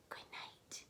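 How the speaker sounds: soft unvoiced goodnight whisper; hushed whispered good night. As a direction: breathe it like a sleepy dinosaur. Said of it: "they whisper".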